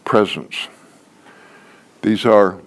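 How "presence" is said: lower, flat-falling list, item by item; list recitation. Shown as a demonstration. Trainer mimics reciting a spelling list, rote recitation. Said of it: "not a spelling list to recite".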